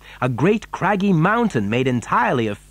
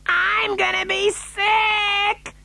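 very high, slow wail; queasy yell; much slower than usual. A narrator's reading. Mother turning green in the lift, yelling queasily. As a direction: drag it out in a high, wailing cry. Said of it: "yelled Missus T V".

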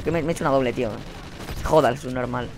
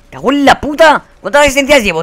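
exasperated cursing; 6 semitones higher, 3 dB louder than usual. Real, not acted. Cursing at lack of kills.

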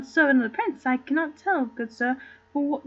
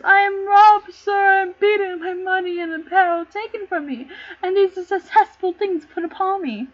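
louder, higher wail of a robbed man; wailing complaint; 4 semitones higher, 4 dB louder than usual. Acted. Rogue tells the clown he was robbed, loud wailing. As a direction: lament the robbery loudly.

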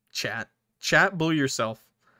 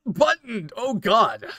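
higher, louder cry of alarm; 8 semitones higher, 6 dB louder, slower than usual. Acted. Player crying out to dying Button, high and alarmed. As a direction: call her name in shock.

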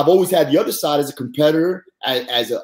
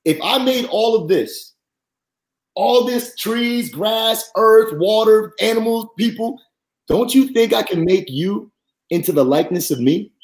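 voice of God; 5 semitones higher than usual. Retold or imitated. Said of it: "God spoke to my spirit and said".

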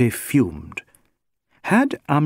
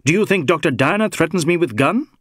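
lightly voiced inspector, higher-pitched; a touch of affronted authority, pitched up; indignant inspector; 6 semitones higher, faster than usual. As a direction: challenge the suspect in disbelief.

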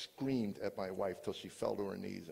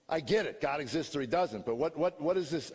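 exasperated challenge; 5 semitones higher, 4 dB louder than usual. Retold or imitated. Arguing with recovery friends.

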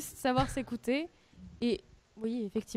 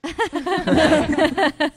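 laughing out loud; 5 semitones higher, 10 dB louder than usual. Real, not acted. Laughs at the consult joke.

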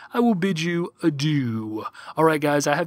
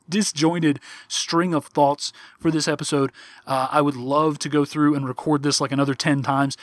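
strained, nearly worn-out voice; hoarse voice. Real, not acted. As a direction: talk through a tired, hoarse throat. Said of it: "I am really close to losing my voice right now".

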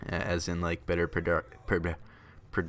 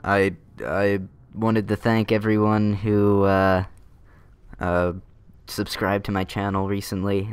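helium voice; 5 dB louder than usual. Real, not acted. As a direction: speak with lungs full of balloon helium. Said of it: "that's why my voice is sounding funny".

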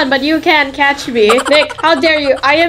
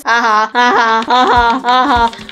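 taunting ha ha. Acted. Taunting brother who can't catch her.

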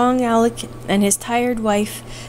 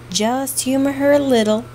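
pleading; 3 semitones higher than usual. Acted. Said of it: "pleaded Judy".

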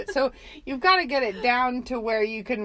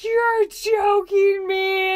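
retold disbelief; 8 semitones higher, 6 dB louder, much slower than usual. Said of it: "I was like".

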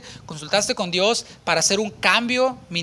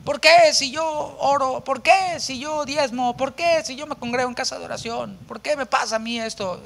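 whining complaint to God; 7 semitones higher than usual. Retold or imitated. Believer mock-wailing at God, high and whiny. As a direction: plead like a wronged believer, mock grievance. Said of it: "no se le grita diciéndole".

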